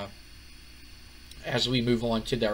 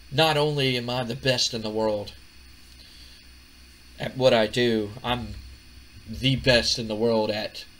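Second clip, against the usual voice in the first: lightly voiced self-satisfied wrestler, deliberate pauses; cocky Chris Jericho. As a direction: retell a smug boast, drawing out the ending. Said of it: "he's so full of himself".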